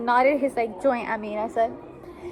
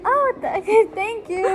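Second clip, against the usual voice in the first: flustered thanks; 8 semitones higher, 5 dB louder than usual. Retold or imitated. Retelling her flustered thanks to a stranger.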